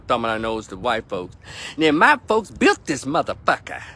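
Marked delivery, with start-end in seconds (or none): 1.8-3.8 condescending. Retold or imitated. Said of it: "in a very condescending way".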